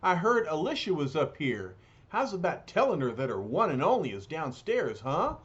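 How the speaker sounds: streetwise bruiser, lightly voiced; rough, folksy big lug; gruff tough guy voice. The Thing asks landlady.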